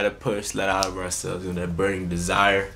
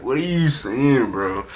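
mock bafflement; slower than usual. Repeats baffled question to uncle.

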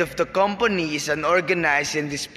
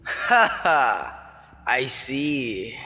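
lower, sneering gloat; scornful mockery; 5 semitones lower than usual. Father sneers at his captured daughter, mocking. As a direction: savour her downfall.

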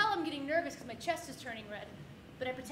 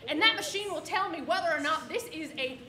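bad cop; 3 dB louder than usual. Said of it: "she pulls out the big guns".

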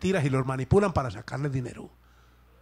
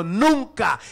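raised, higher cry of the people; raised voice of crowd; 5 semitones higher, 4 dB louder than usual. Retold or imitated. Preacher acting the people answering Samuel, raised voice. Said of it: "el pueblo levantó la voz y dijo".

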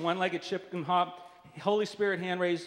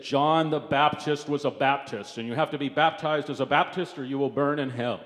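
Jerry Falwell; 3 semitones lower than usual. Retold or imitated. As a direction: lightly imitate a weighty, low-voiced preacher. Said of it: "he had a very low voice".

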